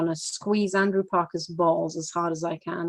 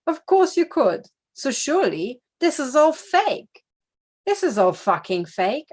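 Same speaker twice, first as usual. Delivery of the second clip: incredulous; 6 semitones higher, 3 dB louder than usual. Real, not acted. Incredulous rant.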